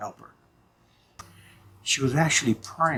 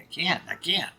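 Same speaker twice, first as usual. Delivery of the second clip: pleading refusal; 7 semitones higher, 4 dB quieter than usual. Retold or imitated. Arguing with himself, refusing.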